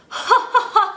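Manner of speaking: high, slow put-on laugh; slow high fake laugh; demo laugh. Shown as a demonstration. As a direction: laugh on purpose to lift the palate. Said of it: "If you laugh for me".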